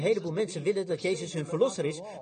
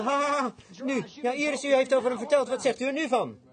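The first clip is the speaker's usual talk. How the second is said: mocking laughter; 6 semitones higher than usual. Crowd laughs scornfully at Jairus, high mocking. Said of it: "Ze zeiden".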